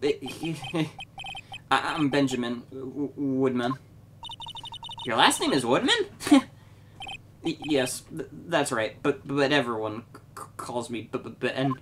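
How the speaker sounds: soft, stammering nervous man; timid stammering ventriloquist. Acted. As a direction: stutter softly as if caught out. Ben voiced timidly.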